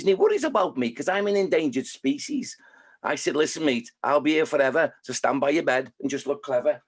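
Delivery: lightly performed Scouse newt; Scouse accent in sing-song verse; Norma the Newt. Acted. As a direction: recite it with a Liverpool lilt. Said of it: "I've got the Evertonians in there".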